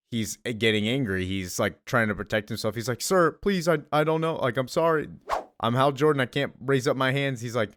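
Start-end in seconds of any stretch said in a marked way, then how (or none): 3.0-7.4 lightly acted, higher-pitched plea; mild pleading. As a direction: plead haltingly, imitating a man protecting himself. Voices Jordan pleading with the cop.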